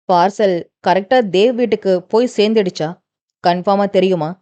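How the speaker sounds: a touch of a low, suspicious question; lightly voiced boss, uneasy; doubtful. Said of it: "ஒரு சந்தேகத்துடனே கேட்க".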